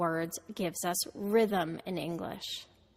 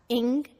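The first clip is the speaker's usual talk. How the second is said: ing said louder, with emphasis; stressed syllable; 3 semitones higher, 5 dB louder than usual. Shown as a demonstration. Teacher isolating the start of English, strongly stressed. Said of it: "The first syllable is stressed".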